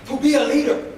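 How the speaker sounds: call and response. Shown as a demonstration. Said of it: "Repeat after me".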